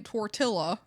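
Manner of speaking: anglicized Tortilla with a hard ll sound like tor-TILL-uh; white country man. Retold or imitated. Mocking the English speaker's Tortilla, anglicized. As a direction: say Tortilla flat like a country American. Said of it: "as a white country man".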